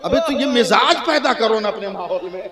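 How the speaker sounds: loud, high preaching call; preaching shout. Real, not acted. Preacher urging the congregation, loud and high. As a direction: raise your voice to rouse the crowd.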